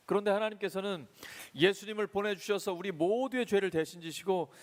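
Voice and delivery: high, loud pulpit proclamation; sermon climax delivered full force; fervent preaching. Acted. Pastor preaching with fervor.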